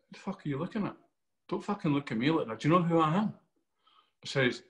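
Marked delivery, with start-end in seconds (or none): 0.1-3.3 higher-pitched mock-aggressive challenge; confrontational. Actor re-enacts his in-character audition outburst, confrontational. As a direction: act out picking a fight.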